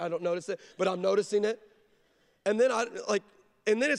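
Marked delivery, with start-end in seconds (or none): 0.0-1.6 laughing it off. Retold or imitated. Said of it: "trying to laugh your way".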